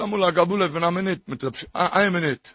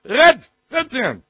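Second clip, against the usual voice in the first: high, loud burst of command; urgent exhortation; 7 semitones higher, 8 dB louder than usual. Real, not acted. Preacher commanding listeners to talk to God, urgent exhortation. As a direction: cry it out, then press it home.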